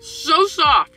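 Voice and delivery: talking through a mouthful of sandwich; words round a bite of food; mouth full. Real, not acted. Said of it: "excuse me for talking with my mouth full".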